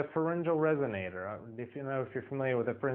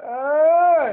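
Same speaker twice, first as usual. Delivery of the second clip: loud high pushed uh; strained chest belt; 14 dB louder than usual. Shown as a demonstration. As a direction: shout a strained high note. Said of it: "pull up our chest voice".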